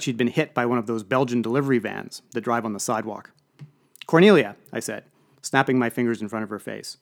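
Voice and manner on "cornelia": loud, sharp call of a name. Acted. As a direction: call her name loudly to snap her out of it. Calling to a dazed friend.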